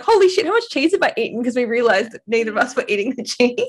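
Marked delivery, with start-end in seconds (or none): 0.0-1.4 shocked friend. Retold or imitated. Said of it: "she was like".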